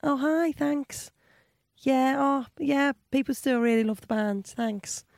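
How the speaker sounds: high-pitched imitation of a friendly star; politely friendly, pitched well up; friendly pop singer. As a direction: imitate someone kindly thanking a fan. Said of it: "She was very friendly. She's like".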